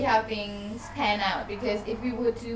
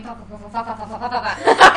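mock swearing noise; 10 dB louder, faster than usual. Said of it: "Nobody walks around going".

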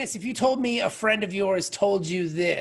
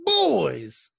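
bro voice; 3 semitones higher than usual. Pretend. Mocking bro talk.

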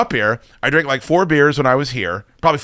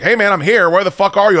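buddy calling out; 7 semitones higher, 4 dB louder than usual. Retold or imitated. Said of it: "so he's like".

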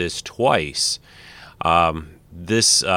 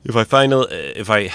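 stuffy, nasal from a cold. Real, not acted. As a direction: talk through a blocked nose. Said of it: "if I sound a little nasally".

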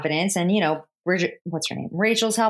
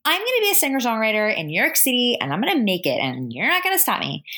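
higher, defiant put-on voice, lightly voiced; defiant girl; 6 semitones higher than usual. Girl tells the man following her she'll make it, mildly mock defiant. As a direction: declare it like a stubborn dreamer. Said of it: "And she's like".

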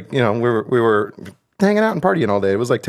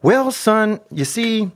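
high, hesitant fatherly stall; buy time like a cornered dad; 10 semitones higher, much slower than usual. Retold or imitated. A father stalling his son about Santa, a touch higher. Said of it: "I was like".

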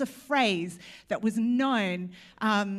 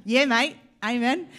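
Aussie amen; 6 dB louder than usual. Shown as a demonstration. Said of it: "You could say".

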